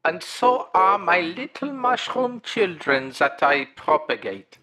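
mushroom creature voice. Acted. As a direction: play a polite mushroom monster caller. Caller plays Heimlich throughout.

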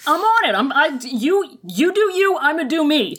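high, breezy voice; carefree brush-off. Retold or imitated. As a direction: toss it off lightly. Echoing carefree quote.

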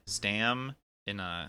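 Stam-ina split into slow parts; Stam-ina said very slowly, a break after Stam; syllable by syllable. Shown as a demonstration. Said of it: "how to pronounce the word stamina".

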